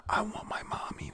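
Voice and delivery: half-hearted wail for a parent; mild mock scream. A narrator's reading. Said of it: "one of them screams".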